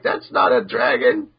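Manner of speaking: whispered, high deadpan correction; mock deadpan. The guild correcting Natsu about the cat, whispered deadpan. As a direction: flatly set him straight in a whisper.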